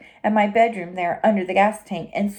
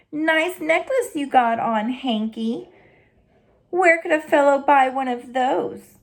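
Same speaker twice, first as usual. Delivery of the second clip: smug taunting cat; 4 semitones higher than usual. Acted. Barn cat mocks Hank's chicken necklace, slyly teasing. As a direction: sneer at the dog with a lazy grin.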